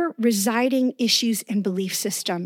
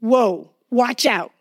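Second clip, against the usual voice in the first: alarmed whoa; slower than usual. Shown as a demonstration. Preacher showing how woe sounds, alarmed warning. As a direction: blurt Whoa like a startled warning. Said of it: "may like".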